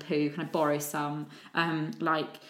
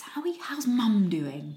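slow, sing-song condescension; patronising mum-group voice; 2 semitones higher, slower than usual. Retold or imitated. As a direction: talk down to her like a child. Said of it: "that voice".

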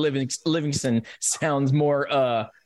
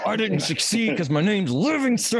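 resentful whine; 5 semitones higher than usual. Pretend. Voicing resentful Livingston.

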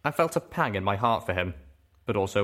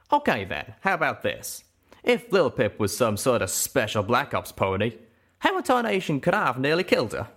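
Calamity's voice, scoffing; 5 semitones higher than usual. Acted. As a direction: brush it off in the cowpoke voice. Calamity arguing, rising.

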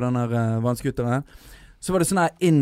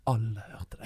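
imitating an embarrassed girlfriend, much softer; quiet retold scolding; hushed mortified reproach; 3 semitones lower, 10 dB quieter than usual. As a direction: say it low and discreet, mortified.

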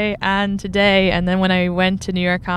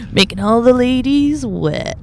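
slow, hammed-up seductive voice; mock sultry, drawn out; sexy voice; 4 semitones higher, 3 dB louder, slower than usual. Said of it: "I have a sexy voice".

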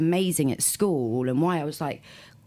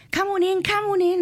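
put-on high, louder old lady voice; posh Cockney lady; 3 dB louder than usual. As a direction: trill it like a forties hostess. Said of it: "a singer woman, like, real Cockney".

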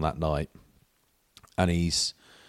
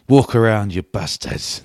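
loud mock taunt at passing lads; jokey heckle; 3 semitones higher, 7 dB louder, slower than usual. Powley heckling the rough lads in a loud mock taunt. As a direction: bellow it as a cheeky wind-up. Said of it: "He goes".

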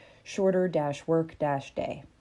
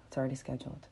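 calm reply; 4 semitones lower, 11 dB quieter, much faster than usual. Acted. Calm answer to panic.

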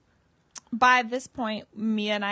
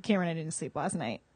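softer, lower, worn out; exhausted complaint; 4 semitones lower, 6 dB quieter, faster than usual. Retold or imitated. To Cameron after a sleepless night, weary and low. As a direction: drag it out tired.

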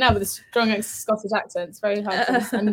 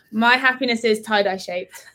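said through a laugh. Shown as a demonstration. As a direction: deliver it while giggling. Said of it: "let me say it again".

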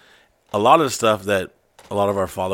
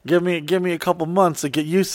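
lightly voiced excuses; 8 semitones higher than usual. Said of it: "You're like".

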